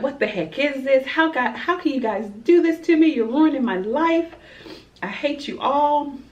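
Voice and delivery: put-on high, whiny teen meltdown; teenage girl screaming at her family during an intervention; angry teen outburst. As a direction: throw a bratty tantrum at the family.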